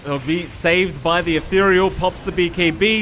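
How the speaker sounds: urgent esports fight call; live play-by-play. Real, not acted. Caster calling the last fight for viewers, live play-by-play. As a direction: call the action as it unfolds.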